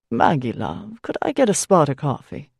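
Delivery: put-on low, kindly older man; lightly voiced friendly priest. Priest greets her at diner.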